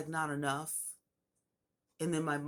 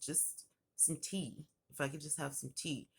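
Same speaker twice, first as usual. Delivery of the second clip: soft, weakened retold plea; meek request; 6 dB quieter than usual. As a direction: ask for it gently, barely pushing. Sick patient's small request for tea.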